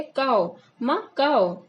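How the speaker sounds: "काओ" said with an unaspirated k, not खाओ; toddler lisp demo. Shown as a demonstration. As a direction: show how a child mispronounces "काओ". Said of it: "तो वो खाओ को क्या कह रही है?". ("काओ" बच्चे की तोतली बोली में, ख की जगह क)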